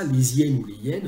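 "les hyènes ou les hyènes", first "lé-zyène" with z, then "lé yène" without; both pronunciations. Shown as a demonstration. Translator offering viewers either form, liaison then none. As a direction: contrast linked and unlinked "les hyènes". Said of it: "Pour en revenir à ça".

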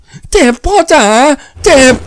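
very high-pitched daughter pleading in pain; high, piteous hurt cry; pitiful cry of pain. A narrator's reading. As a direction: wail pitifully to a father. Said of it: "ลูกสาวร้องอย่างน่าสงสาร".

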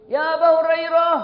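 high, loud summons; calling out. Acted. Mother summoning her son by name, calling out. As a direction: holler for someone far away.

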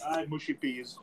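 demonstrating a Manchester accent on "mushy peas". Shown as a demonstration. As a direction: say "mushy peas" as a Mancunian would. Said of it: "you got the Manchester accent down pat".

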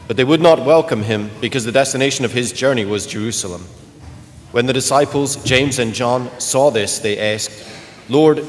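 solemn liturgical reading voice; Gospel reading. Acted. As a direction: proclaim it like a priest at mass. Reads the Gospel at mass.

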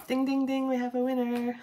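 high, loud mock game-show announcement; playful announcer shouting a winner; game show host. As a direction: ring it out like a quiz host calling a winner. Announcing a winning tarot match.

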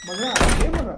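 loud shouted call; calling after daughter. Acted. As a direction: call out to someone walking off. Father calls after departing daughter.

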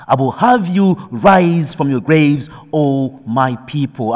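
preacher's ringing proclamation; proclaimed. Acted. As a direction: proclaim God's promise with fervour. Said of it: "Again, he says it".

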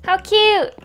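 high, loud delighted cry; delighted squeal. Real, not acted. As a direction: gush over how cute it is. Sees the checkered floor.

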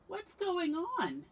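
high, loud, drawn-out question; Badger. A narrator's reading. Badger meets the fleeing friends, loud puzzled question. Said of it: "asked Badger".

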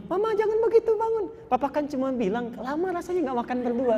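high-pitched, sweetly reassuring imitation; sweet husband. Husband comforts his crying wife, imitated sweetness. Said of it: "manis sekali perilakunya".

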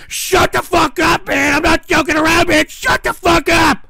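loud, slowed furious yelling; angry shout. Real, not acted. Streamer yelling at his chat to shut up. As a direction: hammer each word at them.

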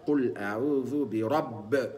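برب with the ب bounced toward fatha; slow recited قل أعوذ برب; recitation demo. Shown as a demonstration. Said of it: "يبقى". (تلاوة بقلقلة الباء)

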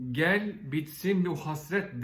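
slow, drawn-out quoted appeal; özlemli çağrı. Retold or imitated. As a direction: stretch out the words like a mock plea. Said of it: "sesimizde ağlamakla olabilir". (ağır ağır, uzatarak özlemle çağırır gibi)

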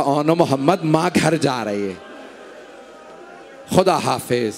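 a mother's faint parting whisper-like farewell; soft voice. Acted. Mother bidding her dead sons goodbye, softly. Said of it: "एक धीमे आवाज में कहा".

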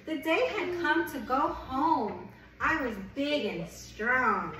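gentle picture-book read-aloud; reading to a child. Acted. Reads picture book to baby.

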